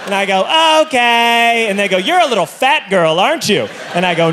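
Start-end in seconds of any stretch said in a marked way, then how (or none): 0.9-1.7 meek acceptance. Retold or imitated. 2.0-3.7 lightly acted taunting question; mock bully's jibe; bullying taunt. Staff bully the passenger.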